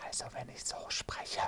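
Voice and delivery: toneless whisper, no voice at all. Shown as a demonstration. Voice coach demonstrating a whisper to the listeners. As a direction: breathe the words out without sounding the voice. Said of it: "das war ja jetzt gerade geflüstert".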